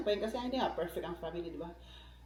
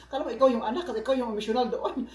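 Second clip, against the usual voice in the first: laughing teasing; 3 semitones higher, 5 dB louder, faster than usual. Retold or imitated.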